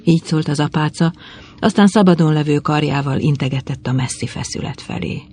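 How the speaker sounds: ordinary delivery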